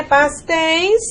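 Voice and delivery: "Pastéis" drawn out on ÉI, the tune rising; falling diphthong. Shown as a demonstration. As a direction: stretch the ÉI in "Pastéis" to show the glide. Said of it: "olha o que aconteceu também". ("Pastéis" alongando o ditongo ÉI)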